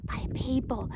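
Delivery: amazed announcement. Retold or imitated. Psychic medium tells her client who surrounds her, amazed. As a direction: draw it out with rising wonder.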